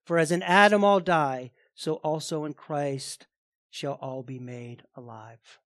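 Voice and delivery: measured, solemn Bible reading to the congregation; scripture reading. Acted. Pastor reads First Corinthians to the congregation, solemn and measured. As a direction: read the passage with weight, slowing at the end.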